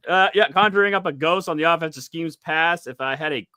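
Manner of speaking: faltering fake Scottish accent; half-managed Scottish accent; bad Scottish accent. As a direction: attempt Scottish while struggling to read it. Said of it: "I can't do Scottish".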